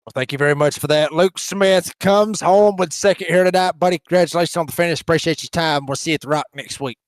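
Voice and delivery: hint of a puppet frog voice; Kermit the Frog voice. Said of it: "I done a pretty good Kermit the Frog impression".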